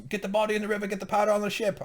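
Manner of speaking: high, pushed barking of orders; hammed-up rhythmic command; mock yelled orders. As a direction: play a boss yelling at his goons. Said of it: "he just yells at him".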